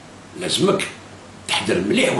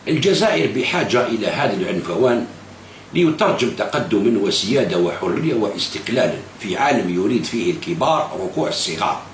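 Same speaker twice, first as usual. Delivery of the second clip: slow, measured recital of a quoted article; reading his article aloud. Retold or imitated. Vlogger reading the leader's own article back to him, slow recital. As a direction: read the quote deliberately, word by word. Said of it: "تقول".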